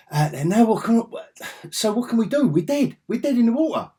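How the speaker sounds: high, loud hammed-up dread; mock despair. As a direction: wail that all is lost, overacted. Mock despair of stranded crew.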